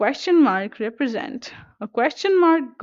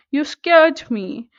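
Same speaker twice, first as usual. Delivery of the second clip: higher, louder, drawn-out exclamation; lightly acted astonishment, raised and stretched; mild astonishment; 4 semitones higher, 5 dB louder, slower than usual. Shown as a demonstration. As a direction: read it as a slow, emphatic exclamation. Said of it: "it shows a sense of astonishment".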